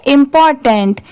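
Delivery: इंपॉर्टेंट said at normal speed in one go; now read इंपॉर्टेंट at speed. Shown as a demonstration. Teacher showing the word read at speed, normal pace. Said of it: "इसे speed में पढ़ेंगे".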